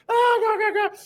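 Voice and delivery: hammed-up mocking guffaws; mocking class laughter. Seniors laughing at the locked-out freshman, jeering.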